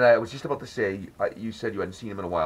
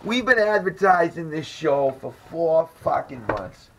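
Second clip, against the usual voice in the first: higher, louder, slow exasperated tirade; ranting; 7 semitones higher, 7 dB louder than usual. Retold or imitated. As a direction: lecture the crowd in mock fury. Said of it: "He's like".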